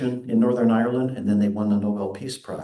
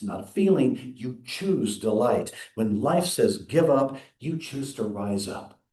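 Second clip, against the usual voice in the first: preaching cadence; 3 semitones higher than usual. Acted. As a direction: build each line like a sermon refrain.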